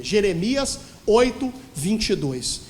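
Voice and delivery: slow, loud, weighty scripture reference; solemn announcement. Real, not acted. Preacher announcing a very serious reading, slow and solemn. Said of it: "Isso aqui é muito sério".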